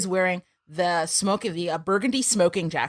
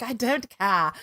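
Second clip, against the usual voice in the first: Clarice impression; 3 semitones higher, slower than usual. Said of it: "She's like".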